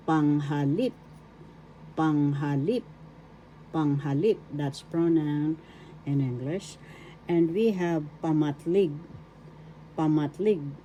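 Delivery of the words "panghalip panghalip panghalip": Panghalip with the accent on its last syllable, lip; stress on third syllable. Shown as a demonstration. Teacher models the Tagalog word for pronoun, Panghalip stressed on lip. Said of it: "The accent is in the third syllable".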